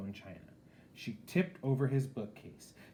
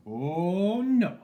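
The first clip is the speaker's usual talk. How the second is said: higher, much louder "oh no"; flatly refuse, loudly; loud refusal; 9 semitones higher, 12 dB louder than usual. A narrator's reading. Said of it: "she said".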